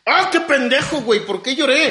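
high mock exasperation at himself; self-scolding. Next day, berating himself for crying, mock exasperation.

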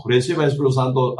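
"Reciba el Espíritu Santo" rattled off fast like a careless formula; mock pastor, rushed. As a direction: toss it off quickly in mockery. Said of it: "Algunos pastores, ¿verdad? Dice". ("Reciba el Espíritu Santo" dicho rápido y burlón)

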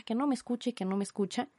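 ordinary delivery

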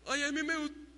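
put-on stumbling girl. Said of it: "se trababa media frase".

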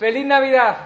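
loud, high holiday yell; festive shout. Acted. Coach yells at passers-by, loud festive shout. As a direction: belt it at the street.

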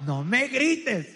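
slow, drawn-out mock protest. Comedian acts out woman telling man not to yell, drawn-out mock protest. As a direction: imitate an aggrieved partner, stretching each word. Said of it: "te dice que no la grites".

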